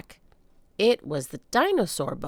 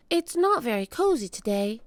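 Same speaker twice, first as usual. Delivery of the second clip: put-on girl voice; 5 semitones higher than usual. Annie voiced by narrator.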